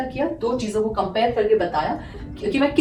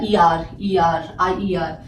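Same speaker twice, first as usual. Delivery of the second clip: slowly sounded suffix; 5 semitones lower, much slower than usual. Shown as a demonstration. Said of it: "यहाँ पे क्या बदला".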